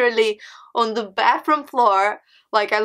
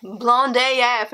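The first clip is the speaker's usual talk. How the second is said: hairdresser gushing; 2 semitones higher than usual. Retold or imitated. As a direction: overdo the fake enthusiasm. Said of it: "the motherfucking hairdresser was like".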